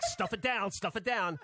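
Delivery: imitating someone settling himself; imitated self-restraint. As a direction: act out forcing anger down. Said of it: "settle himself".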